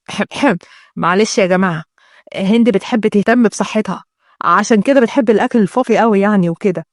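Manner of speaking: lightly voiced man, clearing his throat first; apologetic fiancé. Fiancé excusing his bride to the family, lightly apologetic.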